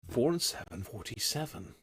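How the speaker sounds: sing-song bingo caller call. Retold or imitated. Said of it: "bit of bingo calling once".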